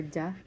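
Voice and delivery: "duh" as a short sounded-out d. Shown as a demonstration. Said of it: "and then D, I hear".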